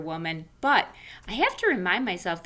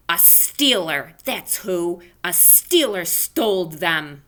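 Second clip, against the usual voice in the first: questioning; 5 dB louder, slower than usual. Acted. Junie answers the teacher.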